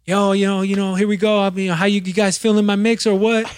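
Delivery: mock hyped DJ opener; hyped-up intro. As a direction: pump up the room about your mix. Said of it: "opened the mix with".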